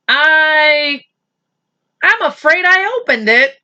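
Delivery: a mother owning up, flustered. Acted. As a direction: confess it nervously.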